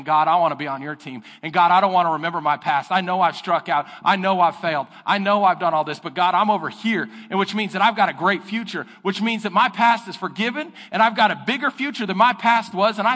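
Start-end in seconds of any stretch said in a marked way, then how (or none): 0.0-7.1 louder, pleading prayer to God; earnest prayer. Acted. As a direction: cry out to God with your whole heart. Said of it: "we're saying".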